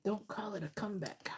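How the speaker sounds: half-spoken rap lyric; quoting a rapper. Retold or imitated. Psychic to client, softly quoting a rapper. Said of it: "That's why I'm hearing a rapper".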